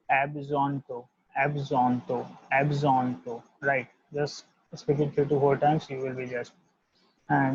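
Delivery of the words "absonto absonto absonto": absonto said as "ab-zon-toh"; French à bientôt drill. Shown as a demonstration. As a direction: model it for memorising. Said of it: "will be delivered as".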